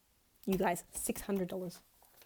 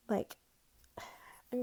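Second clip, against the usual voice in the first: sighing whisper; 5 dB quieter than usual. Real, not acted. Emotional about savings.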